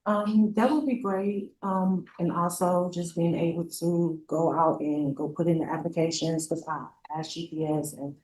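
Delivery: talking while chewing gum; words around a wad of gum. Real, not acted. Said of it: "are you chewing gum?".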